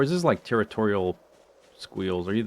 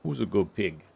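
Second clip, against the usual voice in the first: squeaky praising a dog. Acted. Cooing at a pig.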